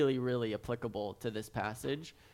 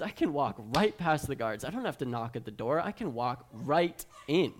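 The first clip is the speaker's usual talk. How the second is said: put-on confident kid; 3 dB louder than usual. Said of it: "the son of Lincoln is like".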